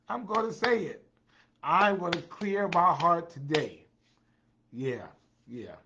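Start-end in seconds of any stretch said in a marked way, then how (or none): 0.1-3.8 much higher, bold and declared; emphatic. Acted. Host vowing to viewers to speak out, high and emphatic. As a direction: say it with your chest. Repeated promise, hushed then loud.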